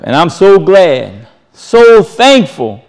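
thankful. Real, not acted. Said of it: "preacher voicing his gratitude".

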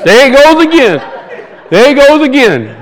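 hammed-up family grumbling at a familiar mishap; mock exasperation. Family teasing his spill, acted.

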